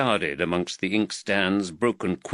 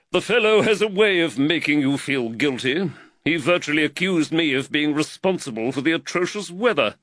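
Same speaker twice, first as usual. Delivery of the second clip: slightly raised, earnest magistrate voice; the worried magistrate, lightly voiced a touch higher; voice of Reed; 7 semitones higher, 4 dB louder than usual. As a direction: magistrate fretting over costs, lightly voiced.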